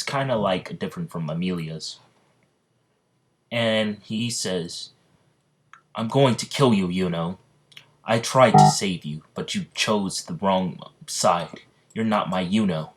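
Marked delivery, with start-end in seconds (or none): 5.9-12.9 angry threat. Acted. Asta threatens Yuno in story.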